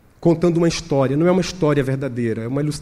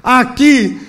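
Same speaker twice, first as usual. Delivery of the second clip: emphatic, raised exhortation; impassioned preaching; 7 semitones higher, 5 dB louder than usual. Real, not acted. Preacher urges Hagai Brasil to stay faithful, impassioned. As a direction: press the encouragement home with force.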